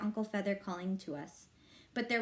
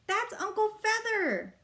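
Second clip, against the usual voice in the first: yell; 11 semitones higher than usual. A narrator's reading. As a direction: call it out while running. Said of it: "I yelled".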